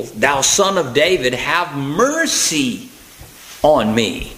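drawn-out plea, stretching MERCY slowly. Acted. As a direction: cry it out insistently, very slow towards the end. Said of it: "he cried the more a great deal".

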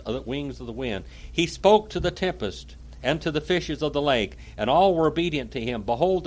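declaimed first-person historical account; dramatic reading. A narrator's reading. Preacher reading Pilate's account to listeners, dramatic reading. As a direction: read it out with oratorical weight.

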